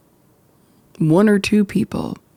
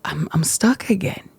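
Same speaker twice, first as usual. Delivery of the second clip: whispered quote; 3 dB quieter than usual. Retold or imitated. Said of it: "she's like".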